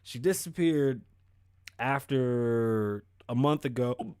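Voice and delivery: talking through hiccups; hiccuping mid-sentence. Real, not acted. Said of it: "I'll stop hiccuping".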